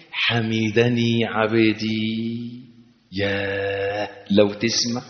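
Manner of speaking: slow, quiet, half-sung; hushed and soft. Shown as a demonstration. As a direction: let it sink in softly. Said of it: "كأنك تسمع بأذن قلبك".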